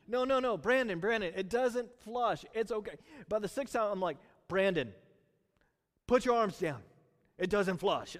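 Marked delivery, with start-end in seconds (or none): 0.1-2.9 put-on louder, higher pleading with a child; no no no, urging him to stop; insistent coaxing. Dad urging his son by the toilet, louder and pleading. Son keeps raising arms. 4.5-8.1 louder, firm telling-off; losing patience with the kid; irritated parent. Retold or imitated. Dad to son by the sixth flush, irritated and louder. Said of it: "I was getting kinda the irritated".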